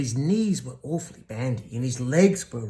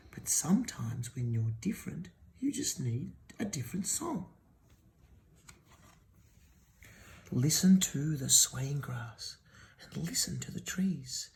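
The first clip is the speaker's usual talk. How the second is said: gentle whisper; 4 dB quieter than usual. Acted. Cricket's gentle whispered advice.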